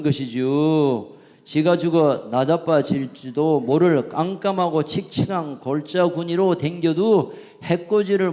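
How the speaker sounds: unhurried Chungcheong dialect psalm reading. Pretend. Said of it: "충청도 버전". (충청도 사투리로 느긋하게 시편 낭독)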